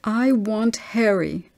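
put-on a small girl worried about losing her friend; plaintive child. Little Chris telling her mother about Harry, a touch of childish worry.

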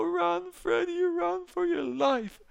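high, loud frantic cry to run; panicked urging. Real, not acted. Fleeing the cops, urging Freddy on in a high panic. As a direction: yell at him to flee in a panic.

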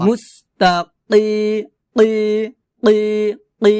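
drawn-out কি with a back-of-throat q; slow Quranic qaf demonstration; deep qaf sound. Shown as a demonstration. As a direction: say কি from deep in the throat, held long. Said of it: "এখানে হচ্ছে কফ".

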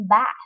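"bath" ending in a breathy, air-pushed th; th with a puff of air. Shown as a demonstration. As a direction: push air out hard on the th of "bath". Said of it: "bật hơi gió ra".

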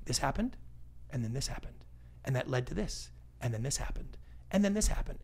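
"this happened" set out in even, separate beats with short pauses; clear, step-by-step telling. Shown as a demonstration. Storyteller showing the classic formula, clear and orderly. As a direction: lay each "and then this happened" down singly and simply. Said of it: "My thoughts are clear".

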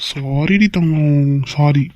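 slow, tender coaxing sorry; coaxing apology. Acted. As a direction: drag it out sweetly to win her over. Husband coaxes angry wife. (மனைவியைச் சமாதானப்படுத்தும் கணவன், மெதுவான கெஞ்சல்)

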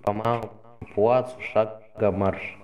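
slow, drawn-out parade-ground commands; drill sergeant. Acted. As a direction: call the march order slowly and firmly. Officer marching the squad off.

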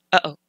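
"uh-oh" with a throat catch in the middle; "uh-oh" showing the glottal stop; glottal stop demo. Shown as a demonstration. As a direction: split "uh-oh" with a stop. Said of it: "that is a glottal stop".

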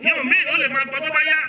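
quoting parents who shrug off teaching Yorùbá, mock dismissive. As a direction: imitate careless parents waving Yorùbá away. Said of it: "Wọ́n ní".

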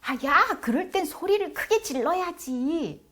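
put-on high-pitched kid piping up; imitated young child. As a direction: play a bossy little kid giving advice. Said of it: "주한이가 이렇게 말하는 거예요".

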